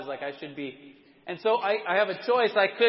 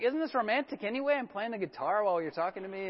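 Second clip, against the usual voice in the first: mock romantic; 2 semitones higher, 3 dB quieter than usual. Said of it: "And I'm like".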